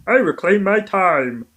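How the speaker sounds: high, slow put-on voice; mock firm interruption; imitating Coco. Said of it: "Coco can go".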